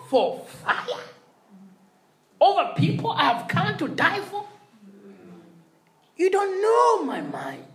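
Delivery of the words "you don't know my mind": hissed rebuke, no voice at all; intense whisper. Retold or imitated. Preacher repeating Jesus's rebuke as a stage whisper. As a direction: drive it home in a fierce whisper. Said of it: "He's rebuking them".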